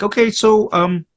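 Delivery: breezy, careless ask for a fake accent; mock casting director. To the actor, casting director asks for an Asian accent, mocking. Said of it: "I go to auditions and it'd be like".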